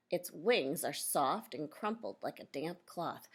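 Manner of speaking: clear, measured read-aloud for a class; reading to children. Acted. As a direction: read the picture book out to the kids. Teacher reads book to class.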